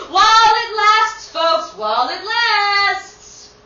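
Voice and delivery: sales pitch. Acted. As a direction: hawk the water to the crowd like a market seller. Water seller hawking to passersby.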